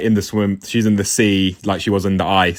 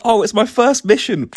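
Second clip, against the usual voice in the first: mock girly voice; 11 semitones higher than usual. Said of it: "She was like".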